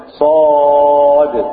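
صاد with the alif held a very long time; held madd. Shown as a demonstration. Teacher shows students the necessary madd, long held. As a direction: hold the long vowel in صاد for six beats. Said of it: "السكون وقبله حرف المد".

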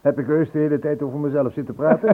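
sheepish question through a laugh; amused embarrassment. Real, not acted. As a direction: laugh at yourself as you ask. Laugh heard on line.

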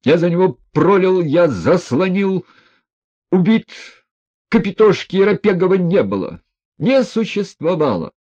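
put-on high, loud, heartbroken cry of an old soldier; general shouting. A narrator's reading. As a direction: cry it out as if defending a fallen friend. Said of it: "Генерал кричал в азарте".

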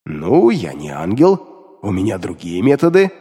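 low demon, half amused. A narrator's reading. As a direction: answer with demonic smugness. Demon Beliar replies.

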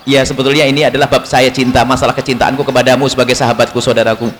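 low, tactful word to a friend; lightly acted gentle confiding; gentle, sweet approach. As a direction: ease carefully into a delicate subject, voice low. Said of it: "Misalnya dalam diskusi manis".

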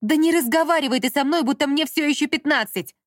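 loud, high angry outburst. A narrator's reading. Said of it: "рассердилась Даша". (гневно, на повышенных тонах)

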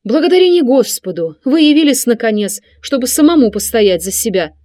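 mother lashing out at her son, loud and high; exclaiming. A narrator's reading. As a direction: burst out at her son in fury. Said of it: "воскликнула она".

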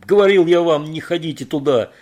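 loud, high furious roar; roared at the fools; angry yell. A narrator's reading. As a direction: bellow the told-you-so. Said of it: "заорал Кейт".

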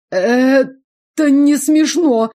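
high, loud, shaky-voiced protest; trembling protest. A narrator's reading. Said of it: "Дрожь в голосе Иоланды". (высокий, громкий, дрожащий голос)

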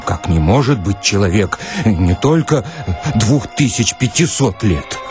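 ordinary talk, nothing marked

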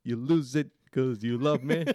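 high, loud Irish attempt; halting lyrics in an improvised Irish accent. Shown as a demonstration. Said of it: "read this in your best Irish accent".

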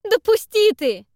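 high, loud, slow furious yell; angry shout. Acted. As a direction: wrench free while yelling. Zak struggling against Tederik.

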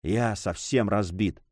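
soft, slow, exhausted murmur; slow and drained, barely audible; faint whisper. A narrator's reading. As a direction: breathe it out, worn out. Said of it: "прошептал граф".

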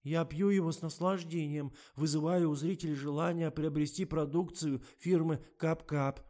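high, chirpy recital; high-pitched reciting actress; squeaky voice. A narrator's reading. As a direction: squeak out the brief like a rote answer. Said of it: "пискнула Катя".

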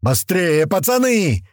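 выше и громче, на бегу; подгоняет пацанов криком; крик на ходу. A narrator's reading. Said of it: "орал Слива на ходу". (орёт на бегу)

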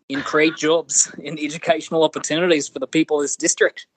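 put-on cheeky Australian accent cold-call pitch, laughing through it. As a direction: read the campaign email like an Aussie caller. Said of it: "in an Australian accent".

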